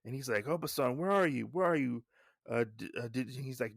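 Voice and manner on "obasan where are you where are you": mildly urgent, raised-pitch acted call; lightly acted, higher searching call. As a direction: search the house for someone. Searching the house, calling out.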